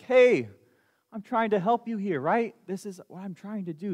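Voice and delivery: a hint of a frustrated parent begging to be heard; lightly voiced God, exasperated then trailing off.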